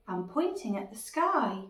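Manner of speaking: animated picture-book read with suspense; children's story narration. A narrator's reading. Narrator tells of a lizard skittering by, lively storytelling. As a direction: build drama for small listeners.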